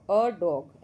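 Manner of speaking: "a dog" with a short schwa "अ" before dog; model reading. Shown as a demonstration. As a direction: say "a dog" as "अ डॉग". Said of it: "ऐसे पढ़ेंगे हम". ("a dog" को "अ डॉग" की तरह पढ़ना)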